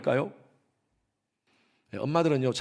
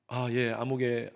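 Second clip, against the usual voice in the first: polite parent introduction; 4 semitones lower, 5 dB quieter than usual. Retold or imitated. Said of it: "이렇게 하면".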